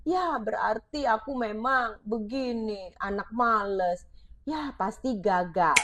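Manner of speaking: put-on a child who believes he is lazy, quietly hopeless. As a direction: sound like a child who has given up. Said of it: "Dia ngerasa nggak berdaya".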